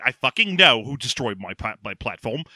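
put-on slipping Michael Caine accent. Corporate villain on a walk and talk, slipping Michael Caine accent. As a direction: let the Michael Caine accent slip as you go. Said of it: "'cause he's already starting to lose the accent".

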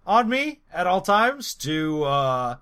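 halting presidential impression; measured politician, long pauses and stretched words; Barack Obama. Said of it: "A M A of Barack Obama".

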